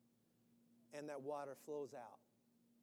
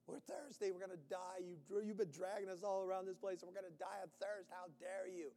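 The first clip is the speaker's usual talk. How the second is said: whining crowd; 3 semitones higher than usual. Acted. Voicing complaining thirsty Israelites.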